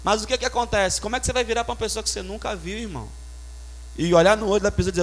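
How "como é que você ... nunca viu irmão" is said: much softer and fast; confiding. Real, not acted. Preacher confiding to the congregation, hushed and quick. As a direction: drop the voice and hurry it.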